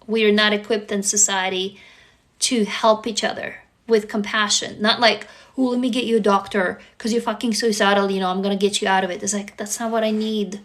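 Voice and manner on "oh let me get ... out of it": rattled off quickly, imitating a hasty helper; mock rescuer. Brushing off a suicidal person by offering a doctor, mock hurried. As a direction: rush through it as a mock rescuer.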